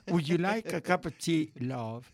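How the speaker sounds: English "would you like a cup of tea, love?" in a put-on British accent. Host showing off a British accent to his friends. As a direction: offer tea like a polite English mother-in-law. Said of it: "Así me decía mi suegra".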